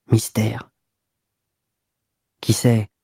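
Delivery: whispered private thought. A narrator's reading. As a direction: breathe the word to yourself. Duroy's inner musing.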